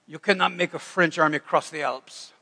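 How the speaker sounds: half-hearted mock French accent; attempted French accent. Napoleon answering about the Alps, attempted French accent. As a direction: try a rough French accent. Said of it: "That's the best French accent I got".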